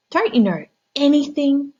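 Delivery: high, huffy cat voice; impatient cat. Acted. Cat scolding the frog, high impatient voice.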